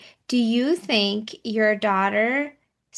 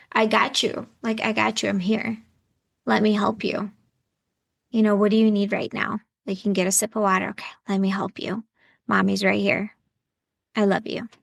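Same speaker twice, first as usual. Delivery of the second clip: soothing parent, slightly lowered voice; gently reassuring; faster than usual. Acted. Coach models mother comforting her daughter, gently reassuring.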